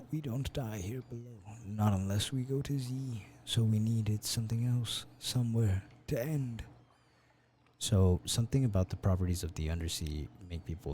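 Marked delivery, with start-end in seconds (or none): 0.1-6.6 put-on old man voice. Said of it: "give him an old man voice".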